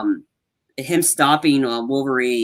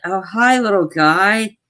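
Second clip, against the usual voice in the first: put-on cooing at baby; 5 semitones higher, slower than usual. Wade greets a baby in nursery.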